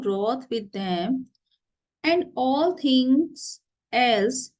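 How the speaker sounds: slow recitation, phrase by phrase; play reading. Acted. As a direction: read the verse out slowly, pausing between phrases. Reads the play aloud.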